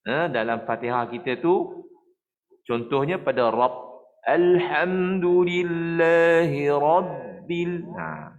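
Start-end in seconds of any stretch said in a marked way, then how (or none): 4.3-7.8 slow chanted recitation, the ba clearly stopped; Quran recitation. Shown as a demonstration. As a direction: recite Rabbil with a firm stop on ba. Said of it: "Jangan pula nanti ada orang baca huruf ba tu tak putus".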